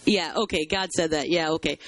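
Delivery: low, dismissive "sure, whatever" taunt; mock taunting. Onlookers taunting Jeremiah over his prophecy, dismissive mockery. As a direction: brush it off in a low, doubting mumble-free tone. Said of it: "they begin to taunt him with that and mock him".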